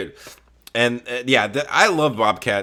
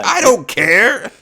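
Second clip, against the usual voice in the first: higher, slow, drawn-out shrug; dismissive; 10 semitones higher, 4 dB louder, much slower than usual. Retold or imitated. Boss dismisses a firing on Christmas, drawn out. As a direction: drag it out couldn't-care-less. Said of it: "He goes".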